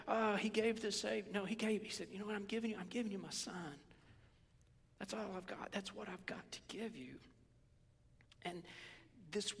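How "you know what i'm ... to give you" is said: soft, pleading sincerity; heartfelt giving. Acted. Preacher voices God giving his son, heartfelt. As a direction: offer up all you have, softly.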